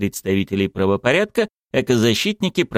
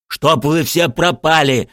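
slow, raised-voice curse; angry cry; 8 semitones higher, 4 dB louder, slower than usual. Acted. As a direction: cry it out, higher and drawn out. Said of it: "закричал Муртуз". (сердитый выкрик, повысив голос)

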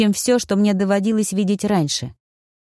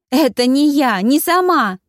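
higher, louder panicked protest; 7 semitones higher, 4 dB louder than usual. A narrator's reading. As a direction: blurt it out in panic. Heroine panics, dragged by branches. (в панике, выше и громче)

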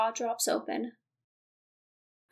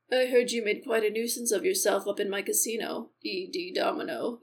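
a lightly lowered, menacing casino owner; a hint of a smug villain's lower voice; deep casino boss; 3 semitones lower than usual. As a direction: speak down to him like you own the place. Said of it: "my voice is so not deep".

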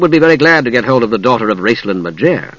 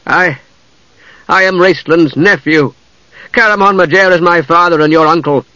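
higher, halting dismayed confession; stricken; 5 semitones higher, 3 dB louder than usual. A narrator's reading. Palin confessing his kinship to Usha, stricken and halting. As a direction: force it out with pauses, distressed.

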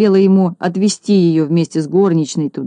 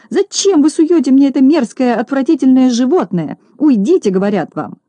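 shrieking scold; 7 semitones higher than usual. Acted. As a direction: screech at the detective. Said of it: "завизжала Минога".

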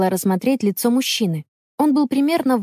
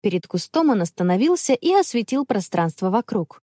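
ordinary delivery, nothing marked

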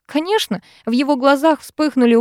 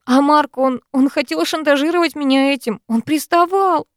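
upset; 7 semitones higher, 3 dB louder than usual. Acted. Heroine upset complaint.

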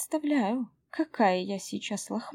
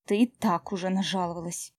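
irritated grumble; 2 semitones lower, faster than usual. Acted. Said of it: "раздражённо буркнула я".

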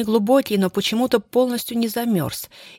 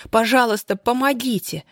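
pleading; 4 semitones higher than usual. Acted. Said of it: "взмолилась она".

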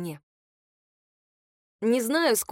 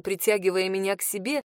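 plain reading voice

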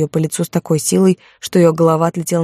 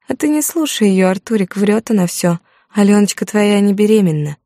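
put-on higher, sly teasing girl's voice; mocking girlfriend; 4 semitones higher than usual. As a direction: needle her with a singsong sneer. Lida teases, voiced by narrator.

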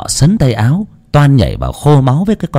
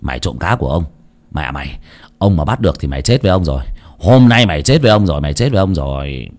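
grumbling; 4 semitones lower, faster than usual. Acted. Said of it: "miệng còn lầu bầu".

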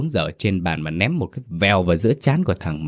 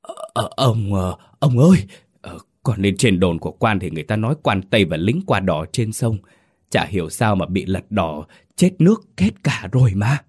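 stammering, rising into a scared wail; frightened whimpering. Acted. Servant whimpering the terrible news to his master, scared. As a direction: blurt out the news between sobs of fear. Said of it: "sợ hãi mếu máo".

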